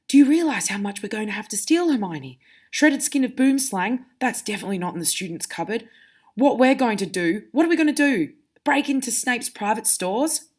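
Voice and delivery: mildly acted incredulous questioning; a touch of disbelief, lifting on the questions; Harry questioning Hermione. Shown as a demonstration. Teacher reading Harry asking about stealing, incredulously. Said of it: "he asked Hermione about, um, how we were gonna steal".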